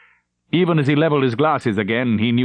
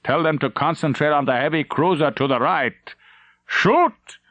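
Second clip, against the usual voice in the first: firm order; 5 semitones higher than usual. Acted. Captain gives fire order.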